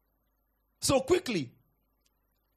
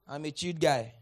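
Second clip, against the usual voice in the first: lower, laid-back mock of I'm a chilled guy; mock cool guy; 5 semitones lower than usual. Shown as a demonstration. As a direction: shrug it off like someone too cool to shout. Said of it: "You don't say".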